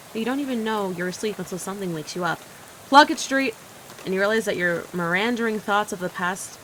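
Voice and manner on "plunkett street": loud stop announcement; calling out. Acted. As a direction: call the stop like a bus driver. Bus driver calls stop.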